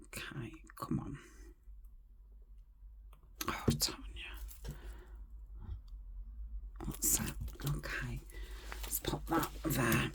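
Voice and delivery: soft whisper to herself while gluing; barely voiced, just for herself; whispered muttering. Real, not acted. Crafter whispering to herself over her glue, soft and unvoiced.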